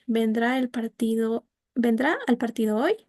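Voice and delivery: "vendrá al partido hoy" rising at the end; rising first part. Shown as a demonstration. Teacher showing the first half of an alternative question rising. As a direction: lift up on "hoy".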